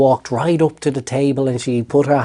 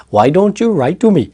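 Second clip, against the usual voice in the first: imitating an Indian accent, higher and louder; 7 semitones higher, 4 dB louder than usual. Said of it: "With, with, with the whole Indian".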